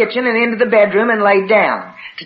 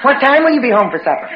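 brisk, higher, pressing question; insistent asking; 4 semitones higher, faster than usual. Retold or imitated. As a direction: press for an answer, quickly. Escalating supper question, more insistent take.

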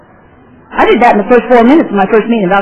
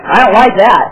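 startled outburst. Real, not acted. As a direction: blurt it out, rattled.

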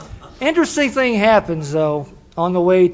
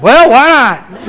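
laughing shrug; 6 semitones higher, 10 dB louder, much slower than usual. Retold or imitated. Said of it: "I thought".

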